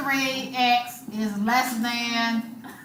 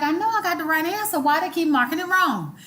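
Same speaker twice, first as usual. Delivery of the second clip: lightly mimicked indignant student, higher; mock student protest, pitched up; 5 semitones higher than usual. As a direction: complain like a baffled student. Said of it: "And you be like".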